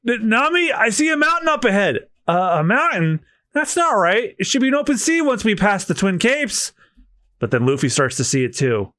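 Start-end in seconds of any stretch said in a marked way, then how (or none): 0.1-6.7 voiced crewmate. Voicing Straw Hat crew lines.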